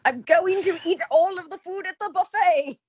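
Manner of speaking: high, loud gleeful cry; hobbit excitement. Acted. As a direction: shout it like an eager hobbit.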